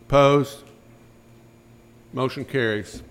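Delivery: short of breath, pushing through; breathless chairman calling the vote. Real, not acted. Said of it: "Let me catch my breath".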